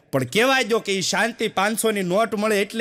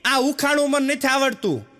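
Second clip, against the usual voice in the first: put-on child calling out; 5 semitones higher than usual. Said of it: "છોકરાએ રૂમમાંથી રાડ પાડી".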